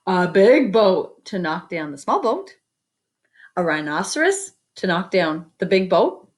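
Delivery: lively picture-book reading; story narration. A narrator's reading. Teacher reading a picture book to the class, lively storytelling. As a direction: read it out to the kids with wonder.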